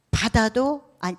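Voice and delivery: ordinary talk, nothing marked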